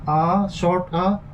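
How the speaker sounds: "a" as a short, weak schwa; slow schwa demonstration on "a"; schwa sound. Shown as a demonstration. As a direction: say "a" as the unstressed "uh" vowel. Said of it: "schwa vowel".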